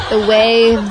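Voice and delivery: imitating a sensual voice; drawn-out mock sensual. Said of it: "your voice get so sensual".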